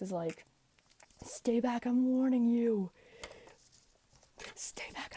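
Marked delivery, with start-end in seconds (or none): 1.2-2.9 louder, slow stern warning. Acted. Odysseus warning the lotus eaters to stay back, loud. 4.5-5.2 hiss-free hushed warning; whispered warning. Acted. Odysseus warning the lotus eaters again, in a whisper.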